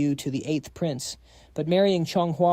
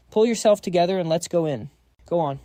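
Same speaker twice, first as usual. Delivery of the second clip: firm urging; 3 semitones higher, 4 dB louder than usual. Acted. Urging at palace entrance.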